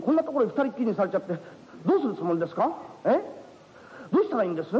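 lightly voiced bashful young man and woman; lightly voiced young lovers arguing politely; awkward young couple. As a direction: squabble shyly over who sleeps.

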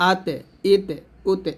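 আতে, ইতে, উতে with a voiced echo vowel after the T; mistaken qalqalah. Shown as a demonstration. Teacher imitating learners' error in আতে, ইতে, উতে, mistaken qalqalah. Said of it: "কলকলার মতো".

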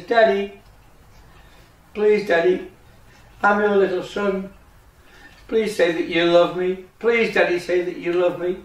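lightly voiced little duckling, begging; pleading duckling. Little son begs Daddy to love him, pleading.

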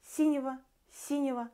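"синего" run together, the -его blurred toward -эва; unstressed ending slurred in "синего"; fast reduced ending. Shown as a demonstration. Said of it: "not real O and Е".

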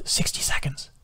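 soft whispered countdown call. A narrator's reading. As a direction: whisper the time warning. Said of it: "Adam's whisper of".

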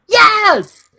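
high-pitched exultant cheer, retold; wholehearted yes. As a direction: say it like you really mean it. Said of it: "Say it like you mean it".

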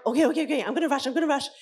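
flustered placating parent; rushing panic. Retold or imitated. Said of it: "We are telling them".

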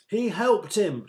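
high, loud call from the crowd; eager shout. A narrator's reading. Someone in the crowd answers Jesus's question, eager shout. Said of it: "shouted someone in the crowd".

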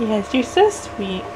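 tender. Acted. Mom cooing to baby.

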